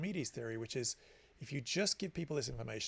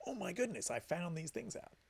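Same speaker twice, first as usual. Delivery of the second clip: higher-pitched mock wonder at a discovery; acted amazement; 5 semitones higher than usual. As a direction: play someone thrilled by their own insight. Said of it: "you're really gonna value it".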